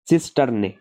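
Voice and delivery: सिस्टर्ने said carefully as sis-ter-ne; correct pronunciation. Shown as a demonstration. Teacher showing students how to say सिस्टर्ने, carefully. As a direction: model the word सिस्टर्ने clearly. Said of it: "इसकी pronunciation कैसे होती है".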